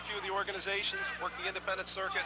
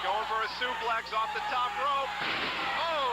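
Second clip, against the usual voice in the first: higher, excited ringside call; wrestling commentator; 4 semitones higher than usual. Real, not acted. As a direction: build to a startled cry. Live wrestling play-by-play.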